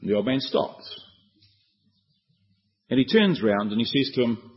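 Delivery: ordinary talk, nothing marked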